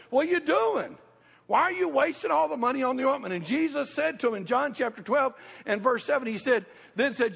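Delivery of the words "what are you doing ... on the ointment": raised, indignant complaint; upset Judas. Acted. Judas scolds the woman at Jesus' feet, higher and indignant. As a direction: Judas protests the wasted money, higher and upset. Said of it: "Judas got all upset and said".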